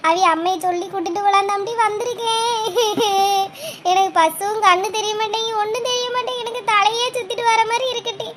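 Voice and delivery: understated acted weeping; tearful lament. Dazed woman seeks the girl's mother, tearful lament. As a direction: plead helplessly, close to tears. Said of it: "எதுக்கு இப்படி அழுதுட்டு வாரியே?".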